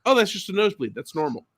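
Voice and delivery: high oh's fading to calm; mock dawning relief, casually; husband realizing it's just a nosebleed; relieved realization. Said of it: "And I was like".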